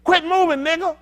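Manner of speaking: high, loud order broken by laughter; laughing mock yell. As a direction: yell it while cracking up. Acted slaver, laughing.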